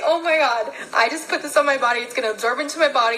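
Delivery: fast, laughing mock panic; mock freak-out. Vlogger retelling her cannabis scare to viewers, fast laughing mock panic. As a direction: rattle it off like she's half panicking, laughing. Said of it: "freaking out".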